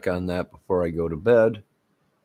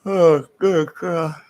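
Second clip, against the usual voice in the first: exasperated groan; 10 semitones higher, 6 dB louder, slower than usual. Real, not acted. Weary exclamation.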